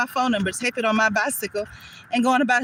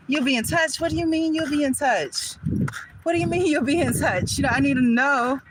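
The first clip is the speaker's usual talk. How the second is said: higher-pitched, incredulous challenge; indignant disbelief; 5 semitones higher than usual. Acted. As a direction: throw it back as a demand for an explanation. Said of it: "That's how I'm feeling".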